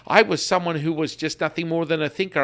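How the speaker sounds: a woman raving about her own progress; excited subscriber. Retold or imitated. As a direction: play the thrilled client who can't believe it. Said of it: "She's like".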